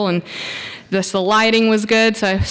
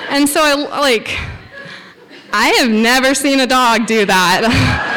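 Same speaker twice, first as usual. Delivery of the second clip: laughing; 3 semitones higher than usual. Real, not acted. Laughing at the bear story.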